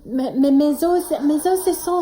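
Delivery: stammered, flustered mock French accent; bad French accent. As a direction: force out the fake French accent again. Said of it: "French, do the accent".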